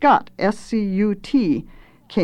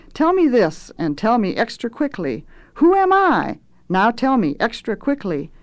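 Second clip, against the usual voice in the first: swooping, teasing lordly cook; grandiose, wheedling cook; pompous chef; 2 semitones higher than usual. Acted. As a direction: toy with your underlings, pitch leaping on key phrases. Swelter addresses his apprentices.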